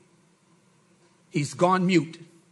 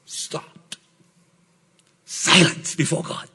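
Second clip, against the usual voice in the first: hushed; 5 semitones lower, slower than usual. Real, not acted. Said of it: "every mouth may be what".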